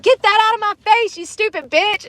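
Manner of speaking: high, fast mock screech at the woman; imitating an angry yell. Brittany Murphy's character yelling at the lady with the ice cream, high mock screech. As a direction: snap it out fast and high like a furious girl. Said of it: "she's like".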